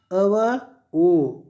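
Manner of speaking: very slow, separated vowel sounds; sounding out. Shown as a demonstration. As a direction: stretch each sound for learners. Teacher demonstrates blending letters.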